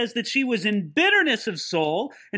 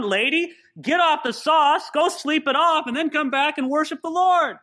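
scolding priest; 6 semitones higher than usual. Acted. Eli scolds Hannah as drunk.

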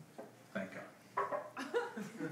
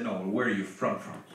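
lightly voiced white guy, pressing; 5 semitones lower, 5 dB quieter than usual. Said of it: "And he said".

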